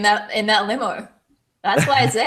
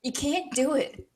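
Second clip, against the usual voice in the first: mocking echo; 3 semitones higher, 6 dB quieter than usual. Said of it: "she's mocking you".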